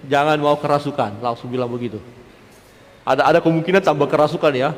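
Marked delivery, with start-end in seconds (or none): none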